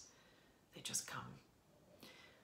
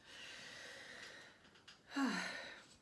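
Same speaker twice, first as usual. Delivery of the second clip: long breathy sigh; heavy sigh; 9 semitones higher than usual. Real, not acted. Reader moved by a beautiful passage, heavy sigh. Moved by the lines just reread.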